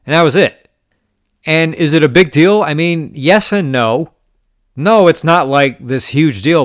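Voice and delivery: venting at the dealer who let it slide; indignant rant. Real, not acted.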